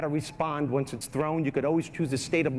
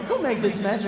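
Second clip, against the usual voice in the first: raised, accusing owner voice; louder, higher mock scolding; dog owner coming home; 4 semitones higher, 5 dB louder than usual. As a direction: demand it like a cross dog owner. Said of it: "you come home and you go".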